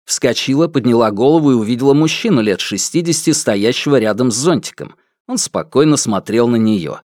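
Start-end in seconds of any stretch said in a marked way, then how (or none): none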